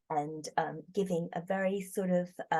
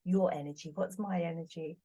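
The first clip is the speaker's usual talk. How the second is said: ordinary delivery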